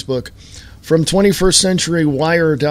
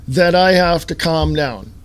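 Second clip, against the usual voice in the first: usual speaking voice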